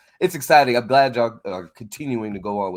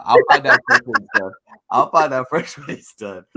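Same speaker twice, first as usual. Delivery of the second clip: tag; 4 semitones higher, 8 dB louder than usual. Real, not acted. Laughingly stops himself asking for spoilers.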